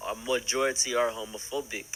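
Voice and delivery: lightly put-on African accent; mock African accent for a retold quote; fake African accent. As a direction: imitate someone with an exaggerated African accent. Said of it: "without the fake accent".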